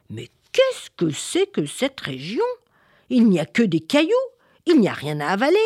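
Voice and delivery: lightly voiced monster, indignant questions; disgruntled monster. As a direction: grumble with rising, incredulous endings. Monster disgusted by the barren land.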